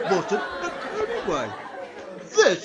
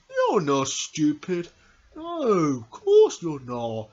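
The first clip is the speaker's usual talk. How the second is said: slow reassurance; 5 semitones lower, slower than usual. Acted. Reassuring the dog Tiggy.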